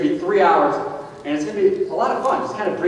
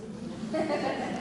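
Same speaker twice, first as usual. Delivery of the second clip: soft laugh; 11 semitones higher, 12 dB quieter than usual. Real, not acted. Laughs at own slip.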